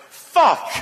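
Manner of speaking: high, loud outburst; shocked expletive. Retold or imitated. Restaurateur hears his last-place ranking called, shocked shout. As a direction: yell it out in comic dismay.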